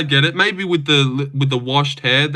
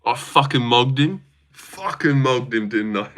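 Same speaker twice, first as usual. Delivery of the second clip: mock British lad accent; shitty UK accent; 4 semitones lower than usual. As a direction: do a rough UK accent, tagging on the question. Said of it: "Just like a shitty U K accent".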